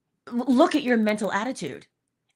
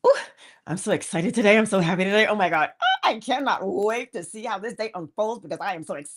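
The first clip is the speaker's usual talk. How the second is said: mock excitement; faster than usual. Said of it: "some would say".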